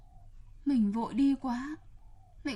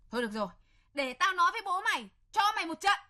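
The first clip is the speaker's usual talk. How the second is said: higher, quicker threat; threatening; 4 semitones higher, much faster than usual. Acted. Stepmother threatening to tell the father, rising angry threat. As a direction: snap the threat at him.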